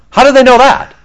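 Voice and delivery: can't believe they'd know; incredulous question. Real, not acted.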